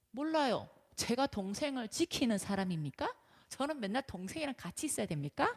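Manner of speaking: defiant retort. Acted. Cain's defiant answer to God, acted.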